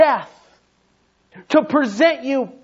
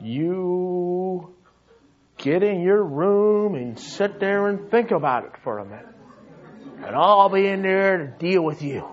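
stern parent; 3 semitones lower than usual. Retold or imitated.

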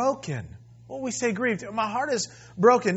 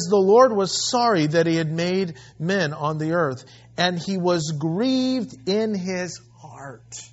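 loud, slow preaching of the verse; scripture reading; 4 dB louder than usual. Acted. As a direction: proclaim the verse with weight.

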